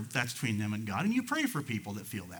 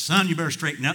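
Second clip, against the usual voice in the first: louder, higher scolding judge; lightly voiced judge laying down the law; stern judge; 5 semitones higher, 8 dB louder, faster than usual. Preacher voicing the judge a defendant needs, stern. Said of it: "you need the judge that says".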